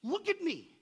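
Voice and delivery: high, loud, pleading cry; desperate leper's plea. Retold or imitated. Leper crying out to Jesus for cleansing, desperate and high. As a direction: beg like a leper with no hope left. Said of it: "you could go to him as a leper and go".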